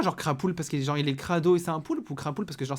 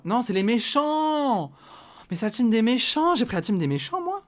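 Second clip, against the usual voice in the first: loud dismayed cry; 9 semitones higher, 7 dB louder than usual. Real, not acted. Player realises he joined the villains' team, loud protest. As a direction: wail at picking the villains.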